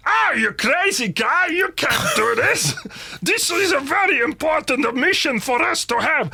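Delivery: mock a game character's silly accent; falsetto-ish comedy foreigner, drawn out; Adam Buxton doing Harry Enfield. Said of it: "sounds like, um, Adam Buxton doing Harry Enfield".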